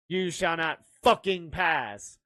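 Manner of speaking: slow, mock-grand movie line; lightly acted, drawn-out film quote; Lord of the Rings quote. Player quoting Lord of the Rings with a swear, mock-grand. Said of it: "in Lord of the Rings one time, where would you say it?".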